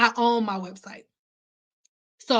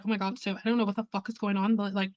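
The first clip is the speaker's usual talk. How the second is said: rising, fast put-on voice pleading with the manager; put-on girly voice; 5 semitones higher, faster than usual. Stylist pleads with studio manager for more days, put-on voice. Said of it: "she thought I talked like this for real".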